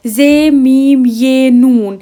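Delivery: name the letters one by one, unhurried; slow letter spelling. Shown as a demonstration. Teacher spelling a word for students, slow and deliberate. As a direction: spell each letter out slowly and evenly. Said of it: "ज़मीन".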